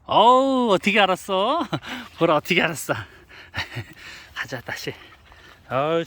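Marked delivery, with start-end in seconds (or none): 0.0-2.9 surprised laugh. Real, not acted. Dog finds him.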